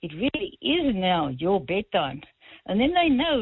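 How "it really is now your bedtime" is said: lower, slow and firm without yelling; stern. Shown as a demonstration. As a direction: calmly lay down the law at bedtime. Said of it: "Just very sternly say".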